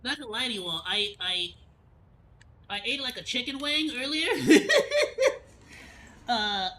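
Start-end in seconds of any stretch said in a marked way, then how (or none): 2.7-4.7 laughing. Real, not acted. Laughs at own confession.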